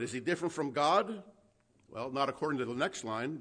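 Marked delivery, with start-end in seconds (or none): none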